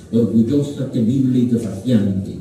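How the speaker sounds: three grave words, each stressed on the penultimate syllable. Shown as a demonstration. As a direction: stress "Orgullosa" on "llo", "temible" on "mi", "desafiante" on "an". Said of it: "con el acento en la penúltima".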